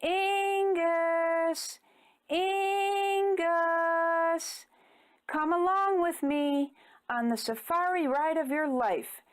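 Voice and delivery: high, far-off calling voice; voice of nature calling. A narrator's reading. Nature calling Ingus to adventure, eerie beckoning voice. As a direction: call his name like the jungle itself beckoning. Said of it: "as if nature was calling his name".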